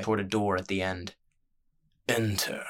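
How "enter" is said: murmured. A narrator's reading. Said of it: "murmured a deep, familiar voice".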